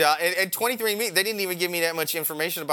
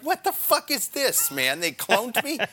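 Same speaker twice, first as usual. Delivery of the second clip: much higher, slow, hammed-up disbelief; mock freakout; 9 semitones higher, slower than usual. Meeting his own clone on the street, hammed-up high-pitched shock. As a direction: squeal in fake shock at your own clone. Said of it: "I was like".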